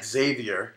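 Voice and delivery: "Xavier" said ZAY-vee-er, insistently; Xavier pronounced as if spelt Zavier. Shown as a demonstration. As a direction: drop the "ex" from Xavier, start on Z. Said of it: "you pronounce that name like".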